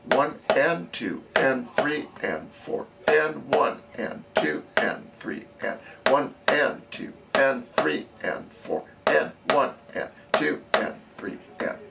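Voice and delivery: steady counting aloud over the drumming; counting in time. Shown as a demonstration. Drum teacher counting the beat aloud for the student drumline. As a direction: count each beat evenly for the players.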